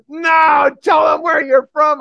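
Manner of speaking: high, loud demanding yell; screaming. Retold or imitated. Heckler demands the preacher tell the crowd his origin, loud yell. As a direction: scream the order at him. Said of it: "He's screaming at me".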